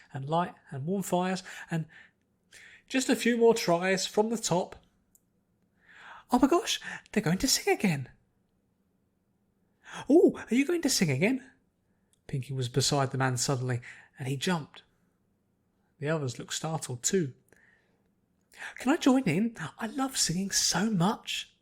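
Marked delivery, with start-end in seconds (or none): 2.9-4.8 choir leader voice. Acted. 6.3-8.1 higher, louder squeal of delight; bursting with delight; thrilled. Acted. Pinky overhearing the choir, thrilled they'll sing again. 10.1-11.5 higher, louder eager ask; eager question. Acted. Pinky popping up beside the leader, eagerly asking. 18.8-21.5 higher, louder eager request; eager plea. Acted. Pinky asking the choir to let her join, eagerly.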